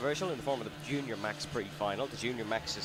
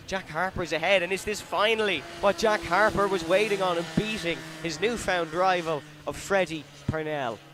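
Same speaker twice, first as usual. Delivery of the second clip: excited commentator; 3 semitones higher, 3 dB louder than usual. Real, not acted. Last lap battle, live call.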